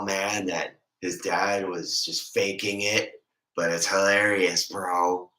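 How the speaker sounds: a lightly played tipsy dude rambling to a buddy; drunk impression. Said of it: "This is me when I'm drunk".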